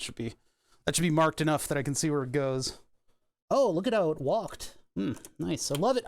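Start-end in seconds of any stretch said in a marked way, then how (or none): 3.5-6.0 sarcastic. Acted. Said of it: "I love it when the drill walks".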